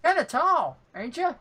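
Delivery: lightly voiced halfling, teasing; a small cocky jab about height. Halfling teasing the tall human, lightly voiced. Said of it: "He goes".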